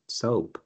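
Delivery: soap with an oh vowel, not oo. Shown as a demonstration. Teacher modelling soap for repetition, oh vowel. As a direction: repeat soap, rounded oh. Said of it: "Can you repeat?".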